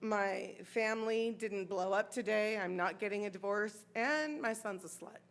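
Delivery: low, soft inner monologue; tally it up quietly to yourself; thinking to oneself. Retold or imitated. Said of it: "kept thinking to myself".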